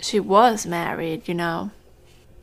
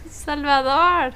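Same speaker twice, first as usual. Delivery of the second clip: laughing protest; 7 semitones higher, 4 dB louder, slower than usual. Acted. Teased about age, laughing.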